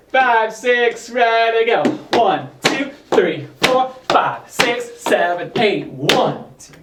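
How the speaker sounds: rhythmic count called to the beat; counting dance beats. Shown as a demonstration. Counting beats for tap drill.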